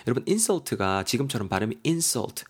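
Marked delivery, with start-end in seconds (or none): 1.9-2.4 "insult" stressed on IN; stress on first syllable. Shown as a demonstration. Teacher shows the noun form, "insult" stressed on IN. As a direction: hit the IN of "insult", IN-sult. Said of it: "강세가 앞에 들어가면요".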